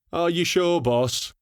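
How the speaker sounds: high, lilting sing-song question. Acted. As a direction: sing it up teasingly. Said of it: "piped up in a sing-song voice".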